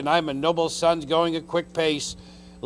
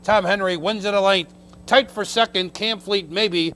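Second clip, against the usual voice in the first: race caller; 3 dB louder than usual. Real, not acted. Race call stretch run.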